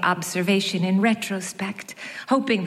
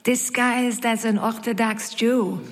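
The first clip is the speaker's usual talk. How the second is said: put-on Yiddish French accent. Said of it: "thick with a Yiddishy French accent".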